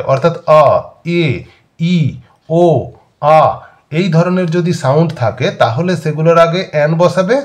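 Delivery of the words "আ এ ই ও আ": "আ, এ, ই, ও, আ" each sounded out separately; vowel sounds. Shown as a demonstration. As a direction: isolate each vowel in "আ, এ, ই, ও, আ", with gaps between. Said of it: "যদি vowel sound দিয়ে হয়". ("আ, এ, ই, ও, আ" স্বরধ্বনিগুলো আলাদা আলাদা করে উচ্চারণ)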